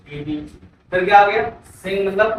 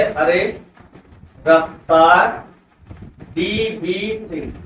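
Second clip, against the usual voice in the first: mnemonic recited; much slower than usual. Shown as a demonstration. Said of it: "क्या बोलेंगे?".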